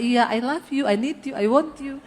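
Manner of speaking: affectionate making up. Retold or imitated. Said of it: "mending sayang-sayangannya".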